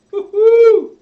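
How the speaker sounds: high, loud whoop; excited cheer. Real, not acted. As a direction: cheer wildly.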